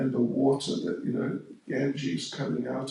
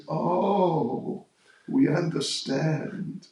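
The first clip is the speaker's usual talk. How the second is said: mock understanding, drawn out a little; sarcastic; slower than usual. Gopis mocking the girl who forgot her name, lightly sarcastic. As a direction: play along with fake sympathy, teasing. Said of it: "They're being sarcastic".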